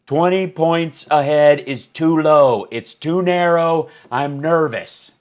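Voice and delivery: high, slow, loud fretting; hammed-up nervous worrier; mock panic. Voices what everybody is like now.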